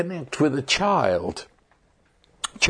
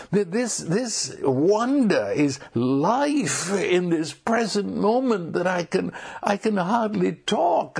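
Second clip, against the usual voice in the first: breathless wonder; 5 semitones higher than usual. Acted. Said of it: "I'm hyperventilating".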